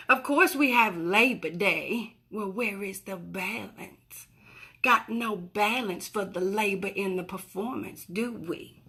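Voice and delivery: Honey. Acted. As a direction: draw out the words in a lightly put-on persona. Speaks as her character Honey.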